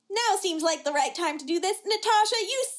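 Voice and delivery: retold accusation, lifting on the name; mock accusation. Julia confronting Natasha in the green room, mock accusation. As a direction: build to a mock-indignant charge.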